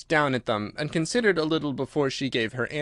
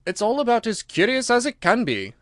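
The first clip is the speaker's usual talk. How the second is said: louder, brisk Gryphon; gruff Gryphon voice; 9 semitones higher, 3 dB louder than usual. Acted. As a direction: bark it out as the Gryphon.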